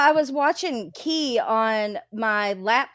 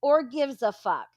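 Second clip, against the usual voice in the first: retold angry rant; 2 semitones higher, 4 dB louder than usual. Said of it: "That's what I kept saying in their chat".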